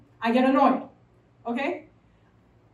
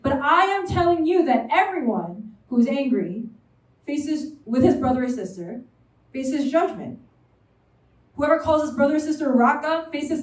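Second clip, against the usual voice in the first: raised, measured scripture reading; 3 dB louder than usual. Acted. Preacher reading scripture to the congregation, measured. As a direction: read the passage out with weight.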